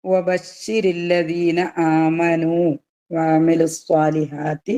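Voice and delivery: slow, drawn-out Quranic chant; measured tajweed recitation. Acted. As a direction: recite the verse with long held vowels.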